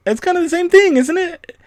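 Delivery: very high, loud squeaky creepy Yoda. Acted. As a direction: shout it as a shrill puppet Yoda. Creepy Yoda answers chat.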